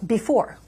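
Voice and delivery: "before" with a light first syllable, weight on "fore"; iambic stress. Shown as a demonstration. Poet gives the host an example, "before" stressed on the end. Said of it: "example of a word or a syllable like that".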